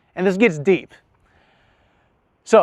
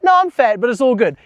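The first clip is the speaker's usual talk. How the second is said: acted higher-pitched brush-off; breezy brush-off; 5 semitones higher, 3 dB louder than usual. Man deflecting his partner's compliment, mock breezy brush-off. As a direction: wave off the compliment in a raised pitch. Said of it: "where I'm just like".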